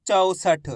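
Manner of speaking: चौसठ with an open "au" in the first syllable; correct au vowel. Shown as a demonstration. Teacher models the right reading, चौसठ with a clear au sound. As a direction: say चौसठ as "chau-sath". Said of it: "इसी तरीके से आपको इसका उच्चारण करना है".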